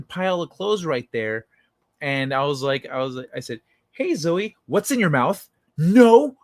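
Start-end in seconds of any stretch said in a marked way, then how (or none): 3.9-5.5 high sweet voice for the cat; talking to the cat. Retold or imitated. 5.8-6.4 high, loud startled no; alarmed no. Retold or imitated. Cat drops mouse.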